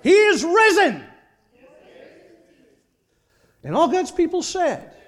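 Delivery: loud, high, ringing proclamation; rousing pulpit shout; jubilant call to congregation. Real, not acted. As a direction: call out the Easter greeting to a whole church. Easter greeting called to congregation.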